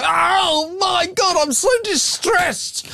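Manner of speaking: high, slow, hammed-up wail of distress; mock a foreigner upset by a flag, wailing high. Host mocking imagined offended visitor, hammed-up high wail. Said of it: "see the tricolour and go".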